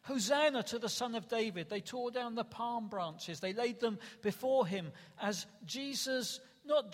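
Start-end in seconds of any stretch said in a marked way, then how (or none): 0.0-1.7 mild, raised acclamation of a crowd; retold crowd shout. Preacher retelling the crowds greeting Jesus, mildly shouted. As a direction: lightly imitate a cheering crowd, voice lifted. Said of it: "they began to shout".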